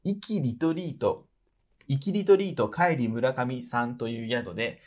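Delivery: even, measured read-aloud voice; reading a letter aloud. Real, not acted. Host reading out a trip report to the person it is about, read-aloud voice. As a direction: read it out like a written travel report.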